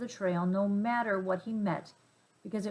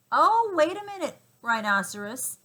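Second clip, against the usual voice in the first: much higher, louder urgent cry; urgent plea; 7 semitones higher, 7 dB louder than usual. A narrator's reading. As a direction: cry out to stop the rhino. Father pleads with rhino.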